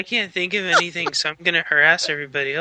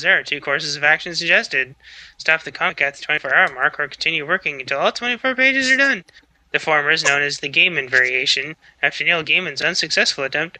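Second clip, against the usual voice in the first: hurried read-through of rules; rapid-fire reading. Real, not acted. Reads the rules to impatient co-hosts, hurried. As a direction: race through the text without pausing. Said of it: "have to slow that down".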